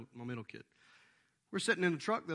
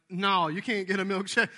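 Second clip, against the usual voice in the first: firm loud no; 4 semitones higher, 9 dB louder than usual. Retold or imitated. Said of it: "it's like".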